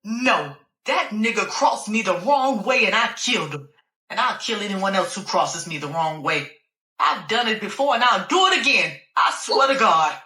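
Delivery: a rising angry rant that ends in a shout. Acted. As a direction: snap back in fury, swearing to God at the end. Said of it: "got angry all over again".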